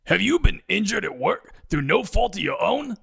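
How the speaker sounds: put-on sleazy TV lawyer in Brooklyn accent. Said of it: "in his heavy Brooklyn accent".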